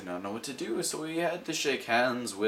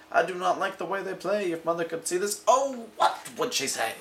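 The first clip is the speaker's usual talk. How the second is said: put-on worried child; 8 semitones higher than usual. Child narrator quote.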